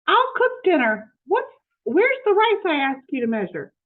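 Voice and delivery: mildly distressed mistress scolding the maid; fretful Missus Rogers. Acted.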